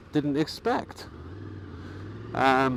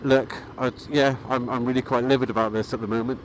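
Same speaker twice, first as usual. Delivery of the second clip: calm deadpan. Retold or imitated. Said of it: "I'm quoted as saying".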